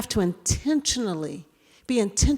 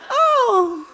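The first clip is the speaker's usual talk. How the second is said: high, laughing embarrassed thanks; higher, louder laughing thanks; sheepish laughing thanks; 12 semitones higher, 5 dB louder, much slower than usual. Retold or imitated. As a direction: thank him while laughing at yourself.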